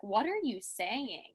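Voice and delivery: slow, mock-baffled question; puzzled. College people questioning her word, slow and puzzled. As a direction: stretch it out in imitated confusion.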